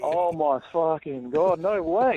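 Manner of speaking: slow, drawn-out amazement; stunned disbelief. Real, not acted. Listener realising the show has rung him, stunned disbelief. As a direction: stretch each word in real disbelief. Caller learns who is ringing him.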